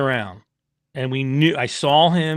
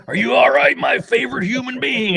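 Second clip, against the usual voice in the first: high-pitched doting call to a favorite person; playful high-voiced affectionate hello; fond greeting; 12 semitones higher, 4 dB louder than usual. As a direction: greet them in a high, gushing acted voice. Voicing rider's fond scooter greeting.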